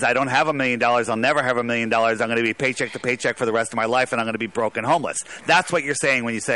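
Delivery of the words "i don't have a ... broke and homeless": fast, run-together self-doubt; rushed inner voice. Retold or imitated. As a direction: rattle it off quickly. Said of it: "what you're saying is".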